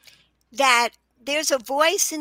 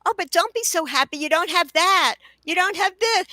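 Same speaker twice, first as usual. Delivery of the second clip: lightly voiced, higher nagging mind; nagging inner voice; 5 semitones higher, 3 dB louder than usual. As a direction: needle lightly, like a discontented inner voice. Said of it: "that's what all of our minds are doing".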